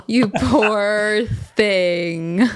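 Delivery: mock pity. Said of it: "feel so sorry for him".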